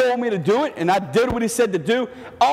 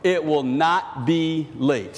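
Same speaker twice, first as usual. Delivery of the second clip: slow reassuring voice; slower than usual. Acted. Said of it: "God says to Habakkuk".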